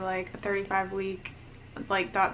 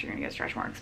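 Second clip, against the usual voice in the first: soft breathy whisper; whispered aside; 6 dB quieter, faster than usual. Shown as a demonstration. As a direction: drop to a whisper. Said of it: "repeats the phrase, second time whispered".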